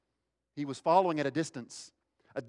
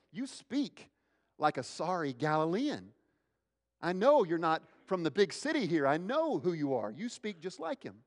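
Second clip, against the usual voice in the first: high-pitched, insistent accusation; accusing; 5 semitones higher than usual. Acted. Bystander to Peter over his Galilean accent, accusing. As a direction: call him out, voice swooping high.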